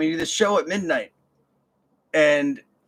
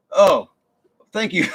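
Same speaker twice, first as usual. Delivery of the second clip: mock overwhelmed thanks; 5 semitones higher, 7 dB louder than usual. Touched by compliment.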